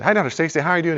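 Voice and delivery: high, eager student hello; eager greeting. Retold or imitated. Student greeting professor on stairs, high and eager. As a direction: beam at him to please. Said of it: "And I said".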